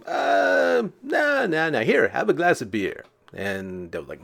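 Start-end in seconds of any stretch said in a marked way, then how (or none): 0.1-3.1 high, hurried no no no; panicked refusal. Retold or imitated. Gambrinus refusing the devil, lightly voiced high panic. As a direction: squeak out a nervous no. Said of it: "Gambrinus like".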